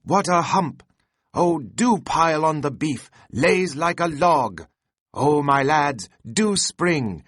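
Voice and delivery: high, loud, giddy pleading to the rowers; Flask excitedly urging. A narrator's reading. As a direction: beg the crew to pull, hopping with glee.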